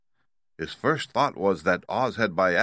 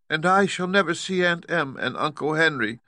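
put-on high, plaintive girl voice; beginning to cry; 9 semitones higher than usual. A narrator's reading. Dorothy missing her aunt and uncle, near tears. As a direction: lament it in a raised, tearful-leaning voice. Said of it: "beginning to cry".

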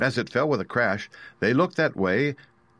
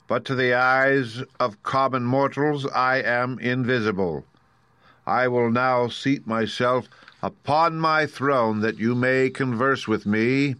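higher, measured, stately pronouncement; mysterious unseen Oz; 5 semitones higher, slower than usual. Acted. Unseen wizard addressing his visitors from the throne, stately. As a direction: draw out the words like a ruler addressing subjects. Booming unseen Oz holds forth.

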